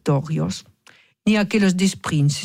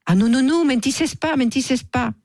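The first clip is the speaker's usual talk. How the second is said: flustered denial; 8 semitones higher than usual. Acted. Tsar caught, hastily denies.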